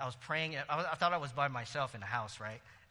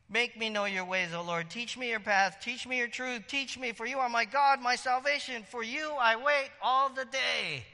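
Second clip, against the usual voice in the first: pleading, climbing higher and louder; fervent prayer rising to a cry; rising plea; 8 semitones higher, 5 dB louder than usual. Acted. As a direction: cry the psalm out to God, building. Psalm read with rising plea.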